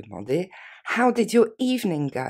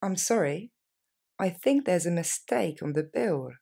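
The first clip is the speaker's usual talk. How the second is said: a slower, deliberate take. Shown as a demonstration. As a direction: say it more slowly and carefully. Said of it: "Plus lentement".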